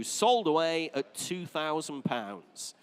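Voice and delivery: slow announcing of the sale; drawn-out auctioneer hammer call; auctioneer calling bids. Real, not acted.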